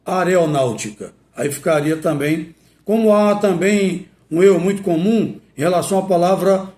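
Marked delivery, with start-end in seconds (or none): 0.1-1.1 "aeronáutica" with the r moved forward, "a-re-o-náutica"; pronúncia errada. Shown as a demonstration. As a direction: mispronounce "aeronáutica" as "areonáutica". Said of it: "e não". ("aeronáutica" dito errado, "areonáutica")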